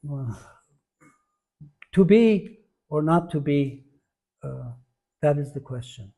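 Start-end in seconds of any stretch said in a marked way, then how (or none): 1.9-6.1 first "be" loud and held, the rest easing off; stress on be. Shown as a demonstration. Teacher quoting Shakespeare to show emphasis, stressing first "be". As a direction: lean on the first "be", then say the rest evenly. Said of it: "You can say a word with different emphasis".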